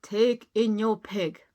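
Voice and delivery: lightly voiced wise old man. Wise old man advising the lady, calm. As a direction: give calm advice. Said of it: "said the wise old man".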